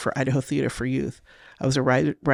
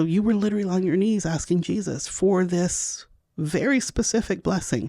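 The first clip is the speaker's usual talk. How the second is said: scolding herself; 6 semitones higher than usual. Retold or imitated. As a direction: berate yourself, pitch climbing with disbelief. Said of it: "I go".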